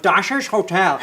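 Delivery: Dacia's Hotel said with a flat northern a, TAH-sha's; Dacia's Hotel in a northern English accent. Shown as a demonstration. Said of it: "With my northern, I would have gone".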